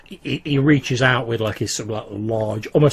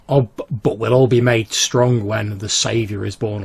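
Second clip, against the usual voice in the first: rasping cultist's voice; raspy voice. Acted. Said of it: "he says in his raspy voice".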